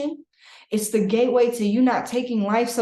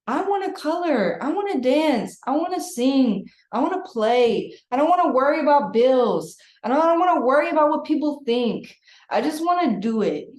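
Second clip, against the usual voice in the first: lightly voiced eager child, higher; a hint of a child listing what it wants; inner child's wishes; 5 semitones higher than usual. Inner child telling the reader its wishes, lightly childlike. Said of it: "Your inner child is just talking to me like".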